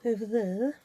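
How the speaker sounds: lightly imitated catchphrase, rising end; Celia Black. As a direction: mimic a famous catchphrase, stretching the vowel. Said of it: "Celia Black used to say".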